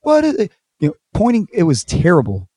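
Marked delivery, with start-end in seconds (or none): 0.0-0.5 high, loud angry shout; imitating angry cops screaming at the owners; mock cop yell. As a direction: yell at them like a mad cop raiding the house. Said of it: "They were screaming at us as if they were mad".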